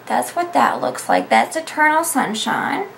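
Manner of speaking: talking while chewing gum; words around a piece of gum. Real, not acted. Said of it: "if you're wondering what I'm chewing on".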